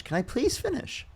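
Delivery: high, drawn-out insistent plea; exasperated plea. Real, not acted. Debater cut off again by the opponent, exasperated.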